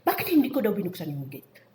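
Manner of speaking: loud, mock-indignant complaint; retold angry demand. Co-worker locked out at the gate complains to housemate, angrily retold. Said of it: "galit na galit siya".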